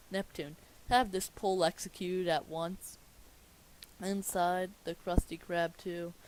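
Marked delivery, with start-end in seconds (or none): 0.9-3.0 royal order. Acted. Angry king gives order.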